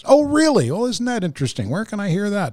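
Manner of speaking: high, eager lady's voice. Retold or imitated. Checkout lady hearing about the podcast, high eager lady's voice. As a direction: play the delighted fan lady. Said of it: "she said".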